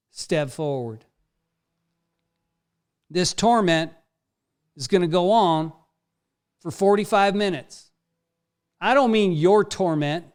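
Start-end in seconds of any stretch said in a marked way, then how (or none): 3.1-10.3 drill sergeant. Acted. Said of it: "trying to talk like a drill instructor".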